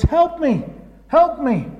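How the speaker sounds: high-pitched call up out of a pit; mock cry for help. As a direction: call up from the bottom of the hole. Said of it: "the hole shouts".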